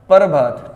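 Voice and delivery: "प्रभात" demonstrated as "par-bhaat"; "प्रभात" in two beats, "par" then "bhaat"; split "par" pronunciation. Shown as a demonstration. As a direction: say "प्रभात" with the r after the vowel. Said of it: "इसका जब उच्चारण करोगे".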